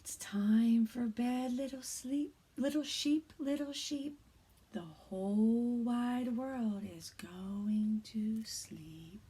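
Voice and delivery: soft, hushed read-aloud; quiet bedtime reading. Shown as a demonstration. Teacher reads a bedtime story to kindergarteners, hushed. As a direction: lull little ones toward sleep. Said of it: "I'm gonna read this book a little quieter".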